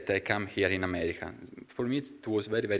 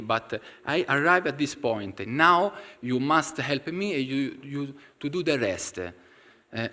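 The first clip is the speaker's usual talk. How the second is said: insistent inner demand, a touch higher and pushier; strong, firm plea; 3 semitones higher than usual. Retold or imitated. Stranded traveller firmly demanding help from Swamiji, insistent. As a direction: firmly tell Swamiji he must help now. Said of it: "I said in a strong way".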